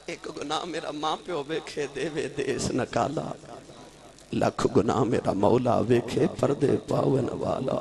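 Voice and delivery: soft, measured poetic recitation; recited verse. Acted. Preacher reciting a sinner's verse on God's mercy, recited verse. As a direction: recite the couplet gently, drawing out line endings.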